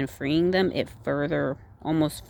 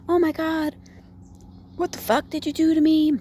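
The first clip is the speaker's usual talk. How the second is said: much higher and louder, a hammed-up panicked shriek; mock victim scream; 12 semitones higher, 4 dB louder than usual. Tied-up girl screaming at her kidnapper, mock panic. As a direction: play the hysterical victim she chose not to be. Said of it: "instead of screaming and acting like a victim".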